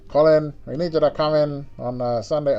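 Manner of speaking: put-on old Hollywood transatlantic accent; glamorous old Hollywood star voice. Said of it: "I don't know why I have the transatlantic voice".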